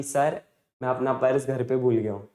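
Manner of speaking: a touch of innocence, said small; innocent pleading. Retold or imitated. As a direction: imitate an innocent, sheepish confession to sir. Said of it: "उतना innocent face बना के".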